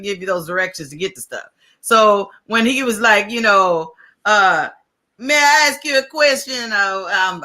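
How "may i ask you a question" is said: rough imitation of a Nigerian accent; terrible Nigerian accent. Retelling a stranger asking for directions, badly imitated Nigerian accent. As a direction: put on a bad Nigerian accent. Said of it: "I do a terrible Nigerian accent".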